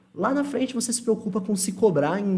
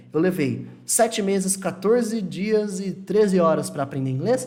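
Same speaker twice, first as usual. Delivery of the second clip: mock precise answer; slower than usual.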